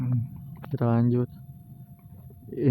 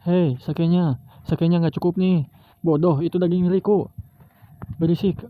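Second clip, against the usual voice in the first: put-on rowdy drunk pirate crew; 4 semitones higher than usual.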